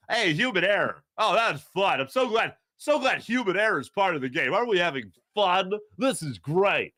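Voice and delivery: mock cheerful fan; sarcastic glee, lightly voiced; hammed-up fan enjoying bad calls. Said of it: "That's my fan voice".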